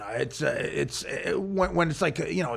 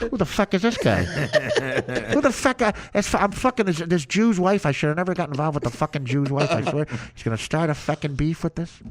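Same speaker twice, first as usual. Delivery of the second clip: Pesci mob voice; 3 semitones lower than usual. Retold or imitated. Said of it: "Pesci and Frank Vincent in Casino".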